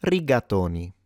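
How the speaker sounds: "Rigatoni" whole, as an Italian says it; "Rigatoni" with stressed to; real Italian pronunciation. Shown as a demonstration. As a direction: model "Rigatoni" with Italian vowels. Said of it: "to pronounce this like a real Italian".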